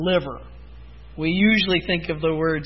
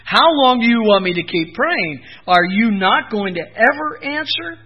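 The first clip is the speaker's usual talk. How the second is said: frustrated plea; 3 dB louder than usual. Retold or imitated. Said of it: "He's saying".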